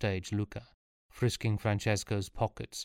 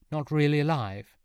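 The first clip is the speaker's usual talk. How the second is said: a touch of bitterness, pitched up; bitter; 6 semitones higher, 3 dB louder than usual. A narrator's reading. Sean quoting someone else's words, mildly bitter. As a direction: quote it with mild bitterness. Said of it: "quoting Cespuglio bitterly".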